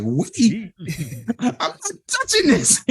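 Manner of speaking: very high, laughing protest; incredulous refusal. Retold or imitated. Producer refusing to make the kids' album, laughingly incredulous. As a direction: squeal the retold refusal through laughter.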